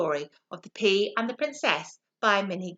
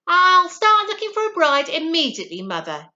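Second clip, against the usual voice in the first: higher, louder eager prince; rushed, eager young prince; hasty prince; 7 semitones higher, 7 dB louder than usual. A narrator's reading. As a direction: promise it quickly to placate mother. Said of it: "he answered".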